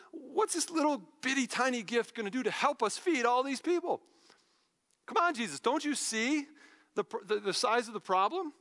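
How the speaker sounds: imitating an exasperated disciple; exasperated doubt. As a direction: plead the obvious, mildly exasperated. Voicing Andrew's doubt to Jesus.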